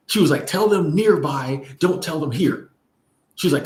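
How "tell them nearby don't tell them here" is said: mildly imitated firm instruction, higher pitch; slow on the first part, assertive without anger. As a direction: lay down the rule like an older shop owner. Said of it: "it was an assertive tone".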